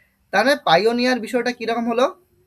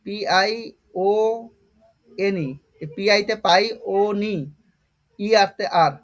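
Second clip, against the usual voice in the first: spelling out; slower than usual. Shown as a demonstration. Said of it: "স্পেলিংটা কি হবে?".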